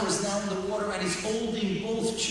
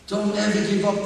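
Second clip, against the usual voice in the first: louder, rousing repeat of the plea; firmly urged; 2 semitones higher, 5 dB louder than usual. Shown as a demonstration. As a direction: push it out to the whole room.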